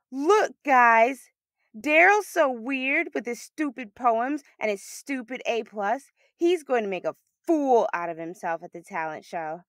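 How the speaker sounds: rally the others against him with a sneer; taunting mean girl. Acted. Denise joins in mocking Daryl.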